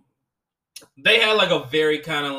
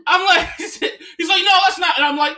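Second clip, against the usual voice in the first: laughing; 4 dB louder than usual. Real, not acted. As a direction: tell it while cracking up. Laughing while retelling.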